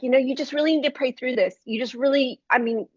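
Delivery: retold impatient advice, little sympathy; unsympathetic retelling. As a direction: tell her off with a touch of impatience. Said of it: "And I was very unsympathetic".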